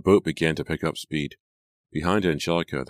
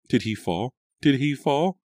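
stunned; 10 semitones higher, 5 dB louder than usual. A narrator's reading. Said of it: "her stunned refrain".

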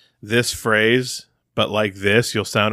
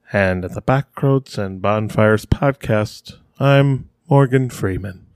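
slow, measured narrator impression, loosely done; Morgan Freeman; slower than usual. Introducing the podcast, lightly voiced slow Morgan Freeman. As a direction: introduce yourself slowly as a famous narrator. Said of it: "That didn't sound like Morgan Freeman".

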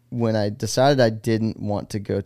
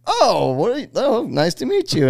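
higher, lightly put-on voice of friendly college guys; imitating dorm guys; 11 semitones higher than usual. Imitating dorm guys meeting the new roommate, lightly put-on higher voice. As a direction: play the dorm guys greeting the new kid, a bit higher.

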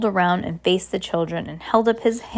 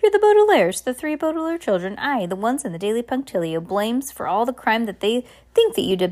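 lightly voiced captain, higher-pitched lively chatter; excitable rambling captain; 4 semitones higher than usual. Captain meeting the Baudelaire children, mildly excited rambling. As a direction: ramble on with a touch of bossy excitement.

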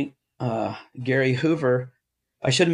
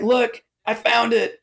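high, slow excited announcement; mad scientist; 10 semitones higher than usual. Retold or imitated. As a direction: act out an inventor's elated discovery. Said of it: "the mad scientist".

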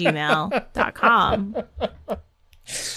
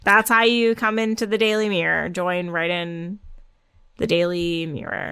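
put-on mean girl deadpan; 2 semitones lower than usual. Host signing off her segment intro to listeners, in mean-girl deadpan. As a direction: let it trail down with dead-faced disdain. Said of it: "my Mean Girl voice".

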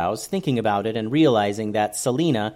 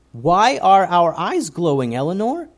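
a bit afraid; 7 semitones higher, 5 dB louder than usual. A narrator's reading. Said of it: "a bit afraid".

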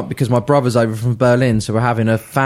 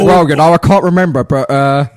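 lightly voiced old footballer; a hint of the forgetful old player; Ron Harris; 3 dB louder than usual. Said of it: "I was going from Ron Harris".

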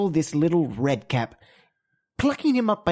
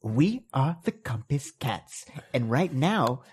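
heroic announcement; 2 semitones lower than usual. Pretend. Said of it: "Get this".

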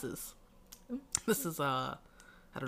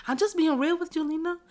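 higher, blunt mock kid voice; deadpan honesty, pitched up; imitating Kayla; 11 semitones higher, 5 dB louder than usual. Quoting Kayla's reply to Lena, higher mock voice. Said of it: "She says".

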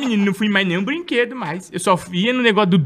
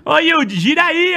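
calling out; 10 semitones higher, 4 dB louder than usual. Pretend. Calling to TV host.

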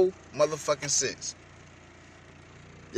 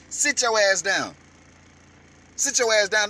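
yelled; 5 dB louder than usual. Real, not acted. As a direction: bark it down at him. Yelling at Biden.

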